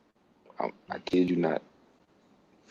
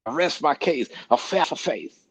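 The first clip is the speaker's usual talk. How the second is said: mock lisping lawyer, higher; old-fashioned courtroom voice; 5 semitones higher than usual. Imitating a lawyer in court, lisping and higher. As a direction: ham up an old-time lawyer resting his case. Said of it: "That's how they were talking".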